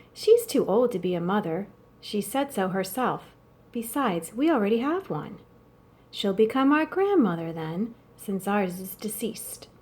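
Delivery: steady read-aloud storytelling voice; story narration. A narrator's reading. Teacher reading the novel aloud to students, calm story narration. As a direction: read the chapter aloud to the class.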